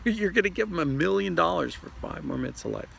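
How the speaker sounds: high, disbelieving exclamation; incredulous. Real, not acted. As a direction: say it like you can't believe it. Incredulous after laughing.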